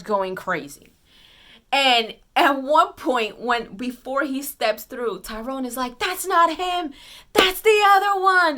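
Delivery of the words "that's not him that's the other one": high, loud excited call; excited shout. Retold or imitated. Tyrone shouting to the theater, excited. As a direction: blurt it out like a thrilled fan.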